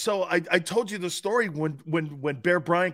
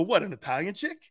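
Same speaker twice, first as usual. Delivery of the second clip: laughing retort; 4 semitones higher than usual. Retold or imitated. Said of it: "I go".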